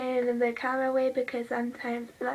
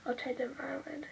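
whisper; 7 dB quieter than usual. Real, not acted. Whispering while doing makeup.

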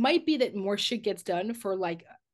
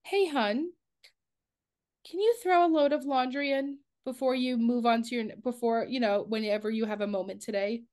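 Southern twang; 3 semitones higher than usual. Retold or imitated. Couples therapist modelling a laundry request, Southern twang. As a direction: gently coax with a little Southern twang. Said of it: "twang where she's like".

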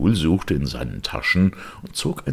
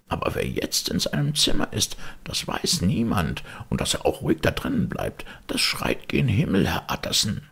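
hushed, frightened whisper; fearful whisper. Acted. Butler whispering his dread to the lawyer. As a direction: breathe it as if the thing could hear. Frightened servant confides the horror.

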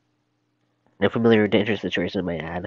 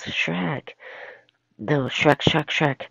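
alarmed call; 6 semitones higher, much slower than usual. Acted. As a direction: call out for Shrek in mock alarm. Donkey calls for help from Shrek.

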